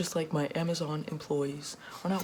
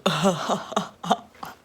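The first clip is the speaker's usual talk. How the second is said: gloating laugh; 3 semitones higher, 8 dB louder than usual. Acted. Rich boss gloats.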